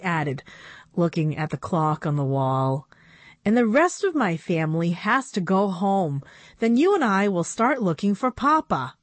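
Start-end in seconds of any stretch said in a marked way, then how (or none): 3.4-9.0 a hint of a young girl pleading; lightly voiced young girl. Narrator voices Annabelle.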